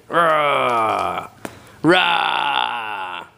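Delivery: playful wrestler roar; Hulk Hogan roar. Pretend. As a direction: growl it like a wrestler. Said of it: "You gonna Hulk Hogan it?".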